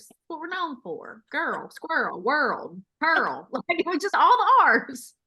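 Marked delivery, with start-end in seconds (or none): 1.3-3.5 put-on girl, squirrel, world, pearl with long R's; listed words, each a drawn R-heavy syllable; heavy American R's. Shown as a demonstration. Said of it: "It's our R's".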